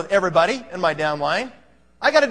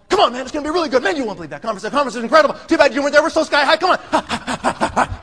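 pumped up; 2 semitones higher, faster than usual. Retold or imitated. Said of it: "You pump 'em up".

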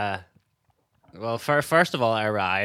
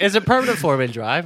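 imitating the mechanic; 7 semitones higher, 7 dB louder than usual. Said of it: "He he was like".

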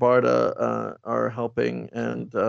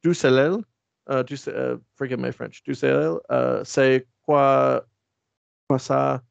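put-on French accent.

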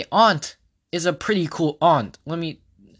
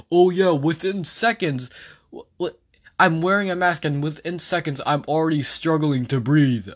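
mocking politician. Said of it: "that was an actual quote from a politician".

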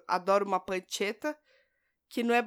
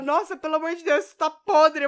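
loud exclamation; 5 semitones higher, 8 dB louder than usual. Retold or imitated. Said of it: "Aí ele fala".

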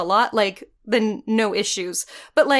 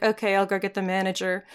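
deadpan; 3 semitones lower, 6 dB quieter than usual. Retold or imitated. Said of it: "stare at you dead-eyed and be like".

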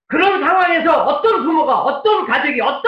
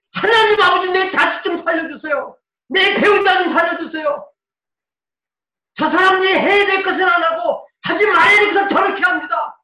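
pleading prayer; 2 semitones higher than usual. Retold or imitated. Parent praying in the closet, hint of tearful pleading. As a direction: beg God for your family's life. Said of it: "골방에 들어가서 울고부짖고요".

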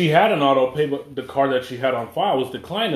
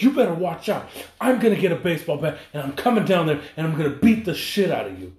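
mock threat; 4 semitones higher than usual. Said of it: "she was threatening me".

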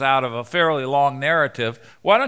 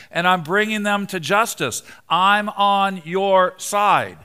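earnest, higher-pitched self-defense; mild protest; 5 semitones higher than usual. Acted. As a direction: plead your case to God, raised pitch. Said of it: "his first thought would have been".

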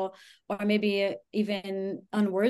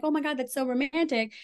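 higher, mock-dreamy gush; sarcastic swoon; 5 semitones higher than usual. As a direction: gush with ironic delight. Mock swooning over red flag.

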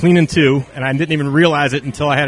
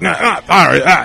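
brush-off; 2 semitones higher, 6 dB louder than usual. Retold or imitated. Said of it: "he totally blows me off".

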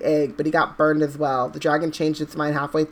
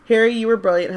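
higher, louder squeak; squeaky; 6 semitones higher, 5 dB louder than usual. A narrator's reading. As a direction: squeak it with excitement. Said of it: "Hermione said squeakily".

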